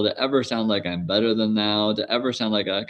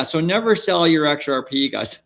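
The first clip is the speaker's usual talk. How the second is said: higher, lightly voiced CEO tagline; a pitched-up billionaire's sign-off; Michael Saylor impression; 4 semitones higher than usual. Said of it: "That's my, uh, Michael Saylor impression".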